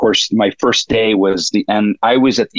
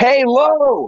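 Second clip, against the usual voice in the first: very high, full-throated shout at top volume. Retelling a shout just as a scene starts rolling, imitating George Clooney yelling at the top of his lungs. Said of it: "at the top of his lungs, yells".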